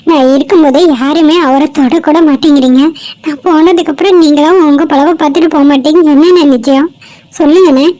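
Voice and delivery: loud, accusing questioning; indignant challenge. Acted. Girl confronting men who won't touch the injured man, indignant. Acted quarrel with indifferent bystanders.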